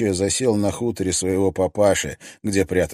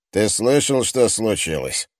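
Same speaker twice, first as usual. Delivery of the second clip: rough and decisive; 2 semitones higher than usual. Acted. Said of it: "звучал грубо и решительно".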